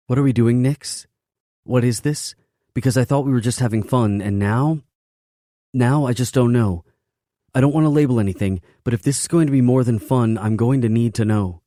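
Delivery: high, loud, rushed demanding woman; agitated. Acted. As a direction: press him for answers, fast and high. Woman demanding answers from lover.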